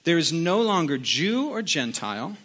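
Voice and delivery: deliberate reading with weighty pauses; measured, spaced-out Bible reading; scripture reading. Acted. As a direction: read it out to the congregation phrase by phrase. Reads scripture aloud.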